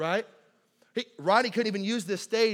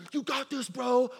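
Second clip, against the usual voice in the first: higher, pumped-up encouragement; mock bro hype; 5 semitones higher than usual. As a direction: hype up your buddy. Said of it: "All my bros like".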